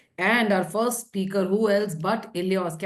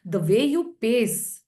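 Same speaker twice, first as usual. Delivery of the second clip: slow, deliberate, spaced-out words; slow paced; slower than usual. Shown as a demonstration. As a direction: draw the words out slowly. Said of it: "your pace of speaking".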